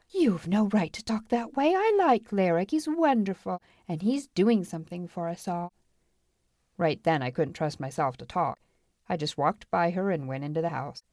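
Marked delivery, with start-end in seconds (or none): 0.1-5.7 put-on higher, heated girl's voice; indignant girl. Marla defends Larrick to Lou, indignant. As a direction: stand up for him indignantly.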